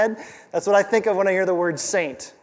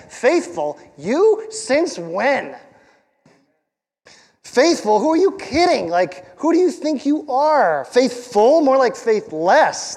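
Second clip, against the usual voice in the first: sneering accuser, pitched higher and louder; mocking enemy voice; 5 semitones higher, 3 dB louder, slower than usual. The enemy mocking the pastor's faithfulness, a sneering higher taunt. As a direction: taunt him like the devil whispering lies. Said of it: "the lie of the enemy sing his chorus of condemnation".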